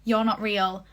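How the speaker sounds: half-hearted yell of denial; mild mock yell. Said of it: "Charlie yell".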